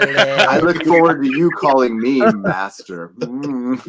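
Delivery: lightly voiced sinister emperor; tempting devilish whisper. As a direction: purr it like a tempting Sith lord. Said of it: "you're destroying Revenge of the Sith for me".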